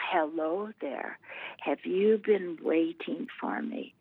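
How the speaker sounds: a lightly voiced spooky lady, fading to a whisper; spooky lady voice, hushed. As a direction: breathe it out slowly like a ghostly voice. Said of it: "this spooky lady say".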